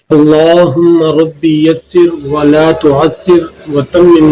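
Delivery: slow, measured dua recitation; slow recited prayer. Shown as a demonstration. Teacher leads the class in an opening dua, slow and measured. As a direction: recite each word slowly and devoutly. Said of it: "سب سے پہلے ہم دعا پڑھتے ہیں".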